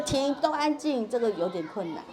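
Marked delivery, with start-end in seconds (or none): 0.0-1.1 half-hearted mock yell, high and slow; 示范大喊. Shown as a demonstration. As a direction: call a drawn-out halt without real volume. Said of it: "你要大喊一声". (拉长音调、不太用力地假装大喊)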